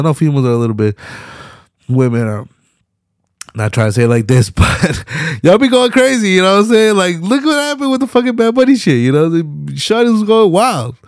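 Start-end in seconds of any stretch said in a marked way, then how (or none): 4.5-11.0 high, loud worked-up rant; louder incredulous rant; animated rant. Real, not acted. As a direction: get worked up about the fans. Ranting about crazy female fans.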